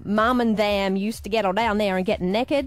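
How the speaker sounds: imitated Southern twang; Southern American accent. Host repeating the actor's quote, Southern American accent. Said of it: "He says".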